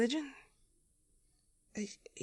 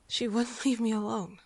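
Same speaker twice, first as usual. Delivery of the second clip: usual speaking voice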